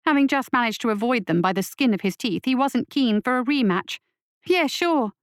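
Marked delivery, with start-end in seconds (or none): 4.5-5.1 put-on higher, scoffing boy voice; sarcastic. A narrator's reading. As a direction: snort it back sarcastically. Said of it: "Lasky snorted".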